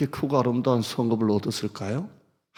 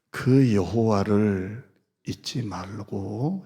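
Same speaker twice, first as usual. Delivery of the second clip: scripture reading; 3 semitones lower, slower than usual. Acted. Pastor reads scripture slowly.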